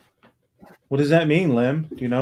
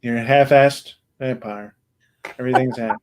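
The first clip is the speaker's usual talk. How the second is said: put-on Russian accent. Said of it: "you're doing it too. Your Russian accent".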